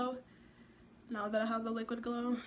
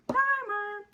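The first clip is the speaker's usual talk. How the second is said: "Primer" said higher, as "pamə" with no r; mock posh; 10 semitones higher, 6 dB louder than usual. Shown as a demonstration. Correcting herself on the product name, mock fancy "Primer". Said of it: "correct, and set primer".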